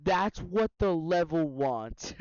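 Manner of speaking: slow dramatic echo; drawn-out ominous repeat; mock ominous. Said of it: "repeats S0's line slowly".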